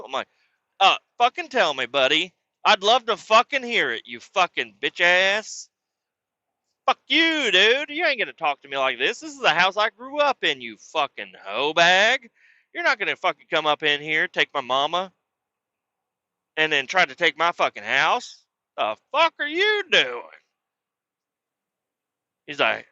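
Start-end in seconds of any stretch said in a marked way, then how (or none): 0.8-5.7 retold angry retort. Retold quarrel with stepfather. 6.8-20.2 retold furious yelling. Retold quarrel with stepfather.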